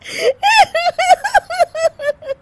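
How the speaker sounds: high shrieking laughter; long high laugh. Acted. Daughter-in-law laughing at the stained kurta. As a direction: burst out laughing. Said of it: "Anshu फिर से हंसने लगती है".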